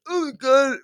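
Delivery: overwhelmed, gushing oh my God; lightly hammed-up emotional gasp; gushing mock sob. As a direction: play back how she gushes at weddings. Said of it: "I'm just like".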